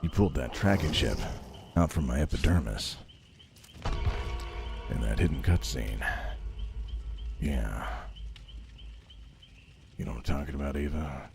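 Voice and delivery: mock heartbroken lover. Talking to the game character Eva, mock heartbroken lover.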